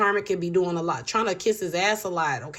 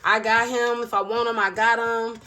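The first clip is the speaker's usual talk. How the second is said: possessive boast; 4 semitones higher than usual. Retold or imitated. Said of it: "at first she was like".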